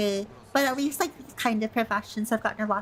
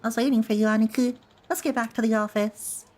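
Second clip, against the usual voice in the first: deep, drawling Southern voice; deep Southern accent. Acted. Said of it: "I just get too deep Southern voice".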